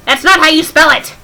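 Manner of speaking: loud fed-up correction with "not" hit hard; exasperated retort. Real, not acted. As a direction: snap it back, fed up. Exasperated repeat of the joke.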